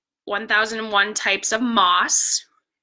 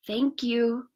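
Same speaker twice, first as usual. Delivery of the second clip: hushed grateful voice; soft whisper; 5 dB quieter than usual. Acted. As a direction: thank you said softly. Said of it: "she whispered".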